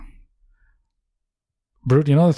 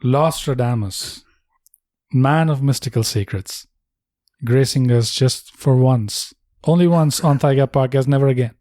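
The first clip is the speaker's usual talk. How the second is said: slow, grand mock-announcer tribute; solemn announcer; slower than usual. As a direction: intone it like a legend's introduction.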